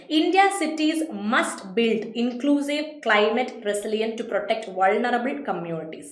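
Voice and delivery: very slow, deliberate reading of the sentence; slow exam reading. Shown as a demonstration. Teacher reading the exam sentence to students, slow and deliberate. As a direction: read it out word by word for the class.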